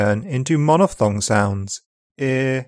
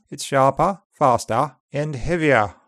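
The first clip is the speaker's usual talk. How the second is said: upper RP accent. Shown as a demonstration. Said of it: "more open at the end of words in upper R".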